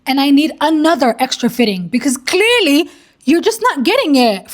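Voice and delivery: retold firm demand, rising at the end. Bride emailing the dressmaker for another fitting, firm. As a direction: lay down demands firmly in someone else's words. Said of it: "She sends another firm email saying".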